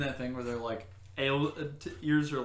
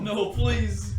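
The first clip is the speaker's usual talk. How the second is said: pleading dog; 10 semitones higher, 11 dB louder than usual. Retold or imitated.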